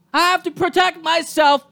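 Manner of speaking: defending kicking the dog, shouted. Real, not acted. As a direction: hammer home the word protect. Repeated louder, shout.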